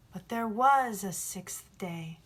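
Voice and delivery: a slow, measured voice for the sun; sun's voice. Acted. The sun continues his reply to the boy, slow and measured. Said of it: "This is the sun".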